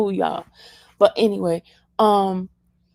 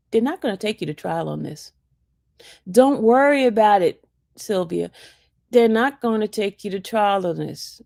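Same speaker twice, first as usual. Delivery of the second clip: calm reassurance. Retold or imitated. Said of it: "he was so calm about it".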